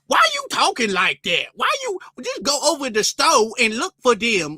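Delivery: broad caricature of a scornful worker; mock urban slang. Store worker challenging how a shopper talks, exaggerated slang voice. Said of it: "super ghetto urban slang".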